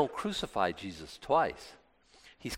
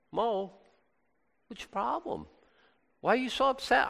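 God; 9 semitones higher, 3 dB quieter than usual. Acted. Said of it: "God's not mad".

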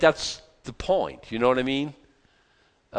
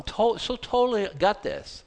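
mock confident; 8 semitones higher than usual.

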